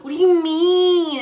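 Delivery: high, loud shocked question; acted-out incredulous outburst; shocked disbelief. Acts out shocked reaction to finding stuff.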